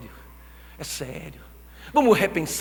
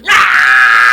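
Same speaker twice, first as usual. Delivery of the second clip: loud yelp of horror; horrified shout; 6 semitones lower, 17 dB louder than usual. Retold or imitated. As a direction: burst out with a shocked cry. Baby bursting out screaming. (grito de espanto)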